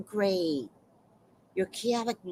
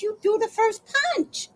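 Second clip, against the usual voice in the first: mock scolding; 13 semitones higher than usual. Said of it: "And I'm like".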